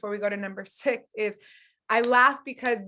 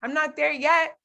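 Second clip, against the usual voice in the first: laughing reluctance; 3 semitones higher, 4 dB louder than usual. Retold or imitated. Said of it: "'Cause I was laughing like".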